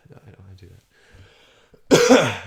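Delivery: slow loud no; loud slow denial. Real, not acted. Catching himself wanting to smack, a loud slow no. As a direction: pull back loudly and slowly.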